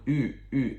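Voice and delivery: "u" alone, as the Chinese ü; isolated vowel sound. Shown as a demonstration. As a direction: hold out each "u" as a rounded ü. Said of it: "getting that vowel sound".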